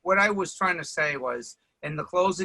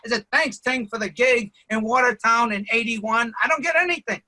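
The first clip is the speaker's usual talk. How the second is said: louder, higher comic grievance; mock indignant; 4 semitones higher, 4 dB louder than usual. Friend complaining he was never thanked: mock indignant whine. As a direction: play the wounded friend demanding credit.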